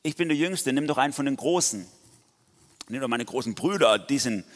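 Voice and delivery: hammed-up high protesting plea; pleading Gideon. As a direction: beg to be let off, as Gideon. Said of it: "Na, so, wieder so".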